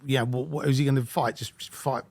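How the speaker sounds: ordinary talk, nothing marked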